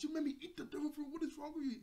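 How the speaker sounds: high, loud mock spaz at a friend; hammed-up yelling. Buggy yelling at Shanks for tricking him, high and loud. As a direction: yell it like a furious cartoon pirate. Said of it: "he starts to yell and spaz at Shanks".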